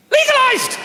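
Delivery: high, loud blurt; shouted correction. Acted. Comic correcting his joke with a loud blurt. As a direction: shout the word legalised to cover the slip. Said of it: "I said legalised".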